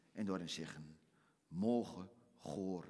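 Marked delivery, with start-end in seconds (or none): 1.5-2.9 solemn remembrance. Acted. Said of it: "een klein momentje hebben".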